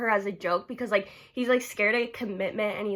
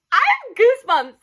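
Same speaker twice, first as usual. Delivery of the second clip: higher and louder, stress on have; louder giddy repeat; 10 semitones higher, 8 dB louder than usual. Real, not acted. Vlogger repeating her crush confession, louder and excited. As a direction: insist on it, excited.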